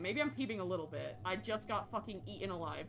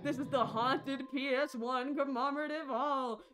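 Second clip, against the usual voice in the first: lightly voiced cackling villain; sneering panto villain; 3 semitones higher than usual. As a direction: ham up a gloating villain. Voicing haunted hall host.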